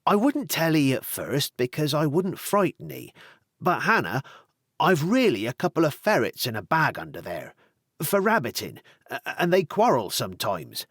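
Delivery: lightly voiced young farmer, talking fast to cover; a hint of nervous babbling; nervous young man. Tony hurriedly changing the subject, lightly nervous.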